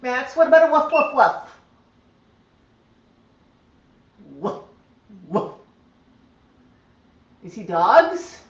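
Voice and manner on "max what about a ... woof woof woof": higher, louder sing-song woof; high pet-talk asking the parrot to bark; coaxing woof call. Shown as a demonstration. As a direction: coax the bird with a playful woof.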